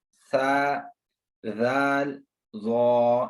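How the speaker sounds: सा and जाल light, ज़ो full and heavy. Shown as a demonstration. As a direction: keep ज़ो thick and the others plain. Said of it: "ज़ो जो है वो पुर पढ़ना है".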